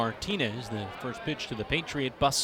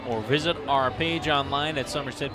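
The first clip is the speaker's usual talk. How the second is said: ad read. Acted. Sponsor ad read.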